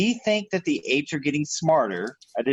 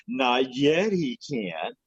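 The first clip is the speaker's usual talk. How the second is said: sergeant impression; much slower than usual. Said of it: "you go".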